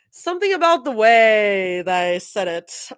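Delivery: Something about the way they said it, whispered with no voice; whispered take. Shown as a demonstration.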